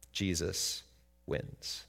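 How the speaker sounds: breathy whispered refrain; hushed whispered declaration. Acted. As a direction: whisper it as a secret victory.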